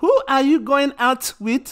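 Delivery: put-on loud Nigerian accent, every T sharply sounded. Retelling asking their mum about going out, imitating Nigerian mum, crisp T's. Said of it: "half Nigerian... she put every single T you can think of".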